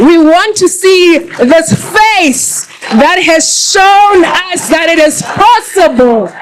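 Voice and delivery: slow, rising announcer call; excited build-up. Real, not acted. Host rallies the women to welcome the minister, slow and building. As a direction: call her in slowly, building the cheer.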